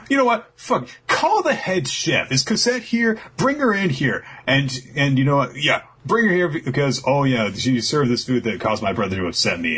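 high, petulant royal brat; spoiled brother complaining about dinner, high whiny voice; whiny tantrum voice. Retold or imitated. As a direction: screech it like a spoiled prince throwing a fit. Brother Niji throws a tantrum.

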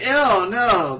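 high, loud mock ew; hammed-up high disgusted voice; disgusted squeal. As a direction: recoil squealing. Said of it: "They're like".

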